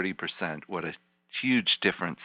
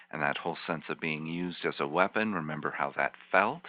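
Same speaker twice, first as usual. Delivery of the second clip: guided visualization. Acted. Therapist guides client back in time.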